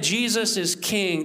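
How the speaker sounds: slow, deliberate declaration; weighty declaration. Acted. Pastor voicing a first-century believer's politically subversive declaration, slow and weighty. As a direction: state it slowly as a subversive act. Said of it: "that was a politically subversive act".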